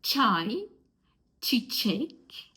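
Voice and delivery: ç as a crisp ch in çay and çiçek; each word alone, with pauses to repeat; demonstrated ç sound. Shown as a demonstration. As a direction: model the ch of ç for learners. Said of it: "And words with ç".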